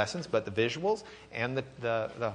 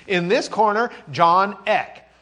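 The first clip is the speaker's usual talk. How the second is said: higher, louder fight announcer call; ring announcer; 6 semitones higher, 8 dB louder, slower than usual. Pretend. Teacher announcing Luther like a prizefighter, announcer voice. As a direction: introduce him like a boxing match.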